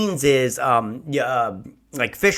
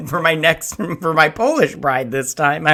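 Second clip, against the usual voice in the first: laughing; 3 semitones higher than usual. Acted. Cracking up at own mock quote.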